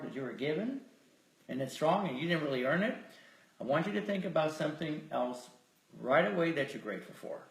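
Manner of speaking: measured, softened voice with lingering pauses; guided meditation. Real, not acted. Leader inviting listeners to feel grateful, guided meditation. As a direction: let each suggestion settle before the next.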